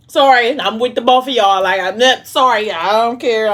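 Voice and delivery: side with her loudly, no apology; unapologetic. Real, not acted. Reader backing the wife on both got to go, sassy and unapologetic. Narrator hotly sides with jealous wife.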